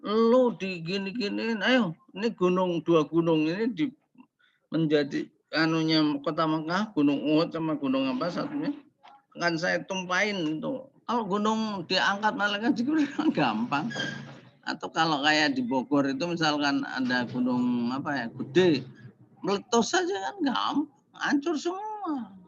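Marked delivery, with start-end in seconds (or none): 0.0-10.8 mild voiced angel; lightly voiced Jibril. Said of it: "Padahal Jibril udah ngomong". 19.4-22.3 much higher, slowing on the destruction; dramatic eruption. Acted. Dramatizing volcano destroying all.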